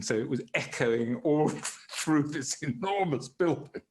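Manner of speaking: ordinary talk, nothing marked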